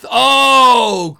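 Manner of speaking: a sudden loud shout of surprise; surprised shout. Real, not acted. Streamer spots a surprise donation, shouting. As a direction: yell out, caught off guard.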